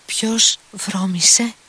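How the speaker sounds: high, slow, astonished question; surprised question. A narrator's reading. Grushenka asks, surprised. (πολύ ψηλή, αργή ερώτηση έκπληξης)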